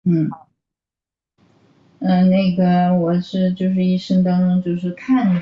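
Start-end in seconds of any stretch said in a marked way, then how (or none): none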